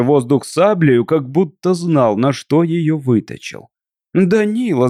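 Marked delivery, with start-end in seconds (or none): 4.1-4.9 high cry of the husband's name; wife crying out to stop her husband's duel, loud. A narrator's reading. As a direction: call out his name in alarm. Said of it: "закричала громко Катерина".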